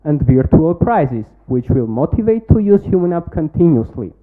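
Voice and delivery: rehearsed, projected pitch-deck delivery; confident startup pitch read to a jury; pitch presentation. Acted. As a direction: sell the product to the judges like a memorised pitch.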